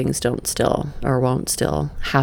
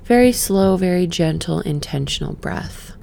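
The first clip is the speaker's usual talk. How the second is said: guided meditation. Acted. Guiding viewers into a breath, gentle meditation voice. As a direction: ease the listener inward, gently.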